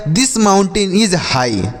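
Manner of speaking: very slow, every word given its own time; slow dictation. Shown as a demonstration. Teacher reads an example sentence to students, very slowly. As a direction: lay the sentence out carefully for beginners. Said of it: "या पहाड़ ऊंचा है।".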